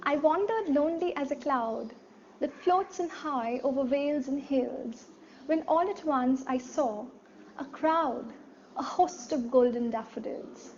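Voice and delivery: poem recitation. Acted. Teacher reciting Daffodils to the class. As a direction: read the verse evenly with pauses.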